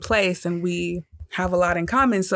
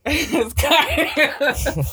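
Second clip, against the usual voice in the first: laughing; 9 semitones higher, 3 dB louder, much slower than usual. Real, not acted. Laughing at the cardio joke.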